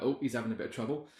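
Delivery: fast, amused mock remark; tossed off through a laugh; laughing quote. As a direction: pelican onlooker, amused and quick.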